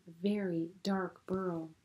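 breathy hushed voice; a whispered hint of the dark burrow; spooky whisper. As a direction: whisper it like something scary.

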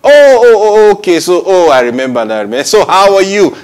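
high, loud burst of remembering; sudden happy recognition. Acted. Phone user finally remembers the caller, sudden happy recognition. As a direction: act out the penny dropping, voice leaping up.

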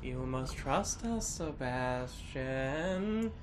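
slow, drawn-out mock brainwashed voice. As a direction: drone it out like someone hypnotized. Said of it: "She sounds super brainwashed".

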